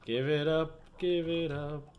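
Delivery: slow, defeated giving up, drawn out; mock despair. Gamer imagining radiation, hammed-up hopeless giving up. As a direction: sigh out a hammed-up surrender to breathing. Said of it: "I'd be like".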